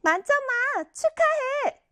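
high, slow, insincere congratulations; congratulating with angry face. Shown as a demonstration. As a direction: drag out the praise through a scowl. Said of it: "화난 표정으로". (화난 표정으로 하는 거짓 축하)

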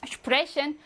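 슈프레션 begun with a hushing sh; sh onset. Shown as a demonstration. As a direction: sound the sp of 슈프레션 as shp. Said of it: "처음이니까 슈프죠".

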